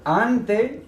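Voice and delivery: ante said AHN-te, slow and clear; Spanish ante. Shown as a demonstration. Teacher modelling ante for students. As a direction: model ante, stress on the first syllable. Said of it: "from the preposition before".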